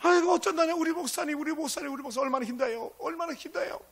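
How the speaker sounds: Jeolla dialect elder. Retold or imitated. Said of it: "전라도 사투리 써가면서".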